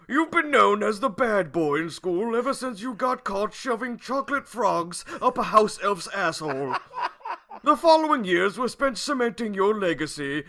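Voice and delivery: put-on old wizard. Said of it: "I have to read it in a wizard voice".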